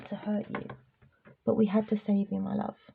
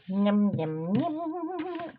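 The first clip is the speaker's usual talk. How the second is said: put-on baby voice; 3 semitones higher, much slower than usual. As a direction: coo it like talking to a puppy. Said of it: "I gave my baby voice".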